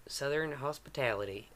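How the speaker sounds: practice southern accent. Shown as a demonstration. Game master echoes player to find the southern accent. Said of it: "get in my southern accent".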